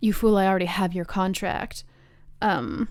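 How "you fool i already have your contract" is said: normal talking voice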